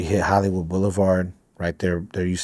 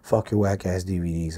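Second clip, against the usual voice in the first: mock cussing out; 2 semitones higher than usual. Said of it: "He started cussing me out".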